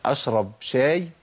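أشرب شاي with an everyday light "shay"; thin shin. Shown as a demonstration. Teacher joking with an everyday example, thin shin in شاي. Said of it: "هو أنا بقول".

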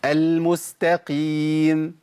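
المستقيم with an even, medium-length m; correct medium m. Shown as a demonstration. Teacher modelling the correct m in المستقيم. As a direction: hold the m of المستقيم neither long nor cut. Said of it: "متوسطة".

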